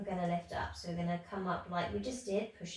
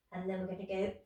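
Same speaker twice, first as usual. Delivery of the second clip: talking through a yawn; much faster than usual. Real, not acted. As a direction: yawn while saying it. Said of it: "sorry for the yawning".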